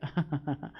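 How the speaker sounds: short, soft fake laugh. Shown as a demonstration. Queen showing how an annoying compliment makes them laugh, fake laugh. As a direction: give a quiet, put-on chuckle. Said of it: "That's your fake laugh".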